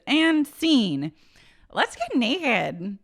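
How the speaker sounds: put-on high, loud, then very slow drunken drawl; imitating Brandy closing the fight. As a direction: channel a tipsy reality star. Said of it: "You sounded exactly like her".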